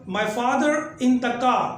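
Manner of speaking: slow American English with a clear R; American accent. Shown as a demonstration. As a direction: say "My father in the car" slowly, pronouncing every R in "father" and "car". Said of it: "US में जुमला बोला जाएगा". (धीमा अमेरिकी लहजा, "father" और "car" में R साफ़)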